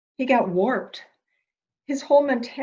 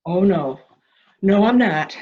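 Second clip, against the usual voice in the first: louder, pressing each word hard; insistent, raised voice; 7 dB louder than usual. Acted. To the stranger, insisting she is not imagining things, louder. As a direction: she won't be talked down. Insisting during the heated confrontation.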